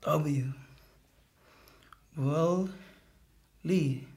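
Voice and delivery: slow letter-by-letter reading; sounding out the word. Acted. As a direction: spell it out haltingly, sound by sound. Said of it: "Sounding out the word like I do in school".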